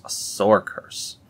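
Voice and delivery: slow whispered echo of sore curse; eerie whisper. Acted. Repeating the curse to viewers in a spooky whisper.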